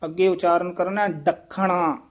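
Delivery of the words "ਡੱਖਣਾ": ਡੱਖਣਾ with a firmly doubled kh; tight pronunciation. Shown as a demonstration. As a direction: press hard on the kh of ਡੱਖਣਾ. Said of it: "ਕਸ ਕੇ ਉਚਾਰਨ ਕਰਨਾ".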